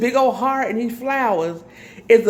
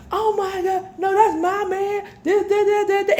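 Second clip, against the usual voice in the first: high, tearful mock wail; imitating her crying; 12 semitones higher than usual. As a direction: imitate a woman sobbing over her man. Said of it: "And she crying".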